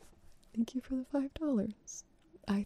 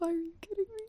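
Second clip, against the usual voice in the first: surprised; 8 semitones higher, faster than usual. Real, not acted. Surprise at a big donation.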